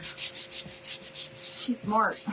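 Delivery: breathy whispered aside, quick and private. Real, not acted. A whispered aside to viewers about Summer. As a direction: let it slip out as a secret whisper.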